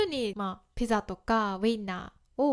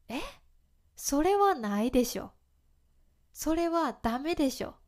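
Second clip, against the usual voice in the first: indignant disbelief; 4 semitones higher than usual. Shown as a demonstration. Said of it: "みたいに使えます".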